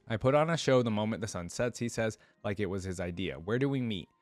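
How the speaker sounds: storytelling with lightly voiced dialogue; measured narration, easing down into the memory; first-person story narration. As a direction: read the scene aloud as a tale. Reads first-person story aloud.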